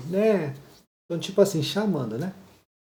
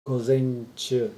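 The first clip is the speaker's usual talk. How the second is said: slow model reading; 3 semitones lower, slower than usual. Shown as a demonstration. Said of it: "tá vendo esse".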